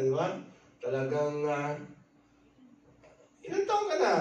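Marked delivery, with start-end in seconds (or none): 3.5-4.1 very high, squeaky mock voice; mocking coworker question. Coworker mocking someone's age at work, shrill-high mock voice. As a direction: parody the sneering question of a rude coworker.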